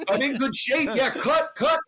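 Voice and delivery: high, loud disbelief, half laughing; retold shocked panic. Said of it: "And I'm going".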